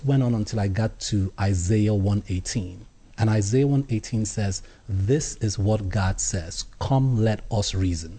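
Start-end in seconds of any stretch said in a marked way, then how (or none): 4.9-8.2 slow quoting. Shown as a demonstration. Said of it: "Just that one line".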